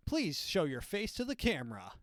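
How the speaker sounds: high-pitched, slow, chirpy machine instructions; cheerful robot reading out commands, rising high; mock-friendly police robot scanning a face. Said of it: "a really friendly robot who comes up to you".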